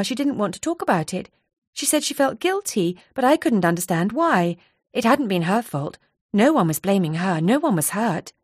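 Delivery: lightly voiced anxious friend. Donna recalling the accident.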